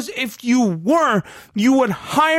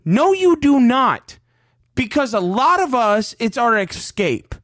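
angry; 3 semitones higher than usual. Real, not acted. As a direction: tell the owner flatly he is wrong. Angry rant at team owner.

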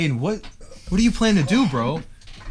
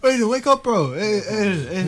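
urgent loud call; calling loudly; 10 semitones higher, 5 dB louder than usual. Acted. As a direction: call out to wake him. Shouting to wake a friend.

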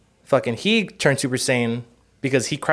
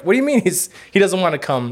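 incredulous friends; 6 semitones higher than usual. Retold or imitated. Friends voiced, incredulous at Shenron.

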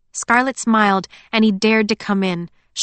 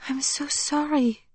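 soft, slow and higher, full of sympathy; sympathetic; 7 semitones higher, 5 dB quieter, slower than usual. A narrator's reading. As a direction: gently say sorry. Emily condoles about dead grandmother.

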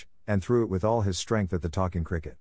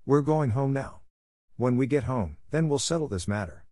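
angry; 5 semitones higher than usual. Acted. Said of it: "said to him angrily".

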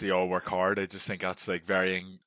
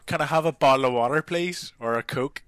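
mock polite ask, higher and louder; timid coffee order; 6 semitones higher, 7 dB louder than usual. Ordering water from the lads in the coffee round, meekly. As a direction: act out a meek drink order. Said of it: "And you're like".

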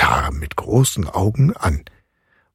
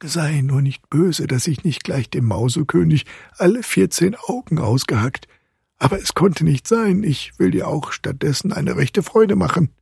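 high, softened conciliatory voice; soothing godfather; 8 semitones higher than usual. A narrator's reading. Godfather consoles Marie at her bedside, high and gentle.

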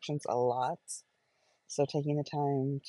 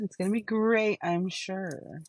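mock-upbeat sarcasm, higher on "great"; raised, falsely cheerful pitch; sarcastic; 4 semitones higher than usual. Real, not acted. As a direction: feign confidence that it will be great. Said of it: "I am saying that completely sarcastically".

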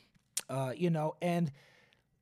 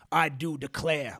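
Southern drawl; 2 semitones lower, slower than usual. Retold or imitated. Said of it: "Southern American bad guys".

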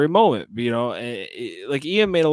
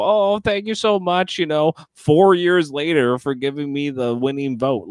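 mock gratitude. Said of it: "She's playing it up for the show".

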